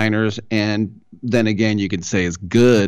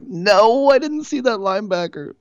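high-pitched mock panic, too late; panicked realization. Quarterback realizes mid-throw he missed the linebacker, high mock panic. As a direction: squeal it like the throw's already gone.

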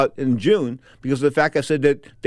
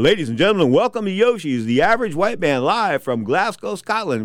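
announcer intro; 4 semitones higher than usual. Retold or imitated. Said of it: "I got to M C the band".

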